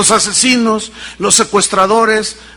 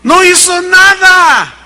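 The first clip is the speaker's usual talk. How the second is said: slow, high and loud on "nada"; emphatic answer; 9 semitones higher, 5 dB louder, slower than usual. Real, not acted. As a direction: lean on every word of "No hizo nada". Climax answer in sermon.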